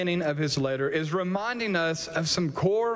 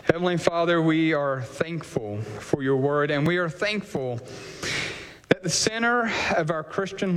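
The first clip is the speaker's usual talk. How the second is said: measured public prayer, sinking lower towards the amen; closing prayer; 3 semitones lower than usual. Real, not acted. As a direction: lead the congregation in prayer, settling gradually downward.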